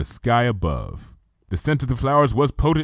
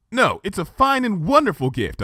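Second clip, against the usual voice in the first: desperately reassuring; 9 semitones higher than usual. A narrator's reading. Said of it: "desperately reassuring fashion".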